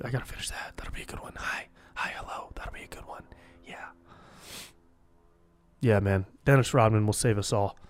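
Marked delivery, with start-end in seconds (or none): 0.0-3.9 very soft whisper to himself; whispered aside. Real, not acted. Comedian noting an unfinished video idea to himself, whispered aside. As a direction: whisper it as a private note-to-self.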